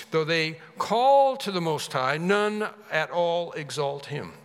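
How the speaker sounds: emphatic, measured Bible reading; scripture reading. Acted. Preacher reads God's words to the congregation, emphatic scripture reading. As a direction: read the passage out with weight.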